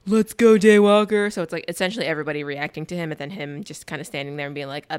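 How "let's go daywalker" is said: a loud, pumped-up cheer; hyped call. Retold or imitated. A clubber hyping up the vampire hunter, with a loud cheer. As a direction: call it out to hype the hero. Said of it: "someone goes".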